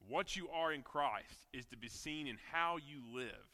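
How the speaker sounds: earnest sermon voice; preaching. Acted. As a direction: preach it to the congregation.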